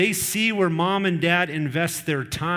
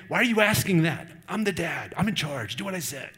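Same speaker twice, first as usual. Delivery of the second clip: lightly acted emotional parent pulling rank; defensive parent. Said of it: "we can get defensive as a parent. We can get emotional".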